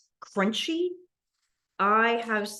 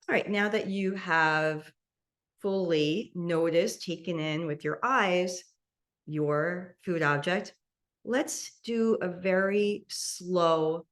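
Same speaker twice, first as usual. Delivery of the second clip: slow guided instruction; slower than usual. Acted. Guides a mindful eating exercise.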